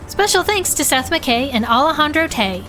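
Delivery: steady announcer credits; credits read. Acted. Closing credits read to listeners, announcer voice.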